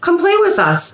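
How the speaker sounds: put-on baby bird. A narrator's reading. Baby bird invites the duckling to play, high and sweet. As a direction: pipe it up high like a tiny chick inviting a friend. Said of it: "the baby bird said".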